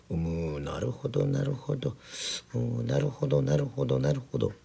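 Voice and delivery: deeply impressed, pondering agreement; emphatic repeated agreement. A narrator's reading. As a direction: repeat it with growing conviction. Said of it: "同じ言葉を三度重ねると一層感じが強くなります".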